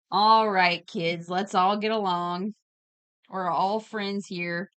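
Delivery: put-on slow, drawn-out plea to squabbling kids, loud at the start; mock parental peacemaking. Streamer telling squabbling chat to get along, mock parental. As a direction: play the parent breaking up a squabble, slowly.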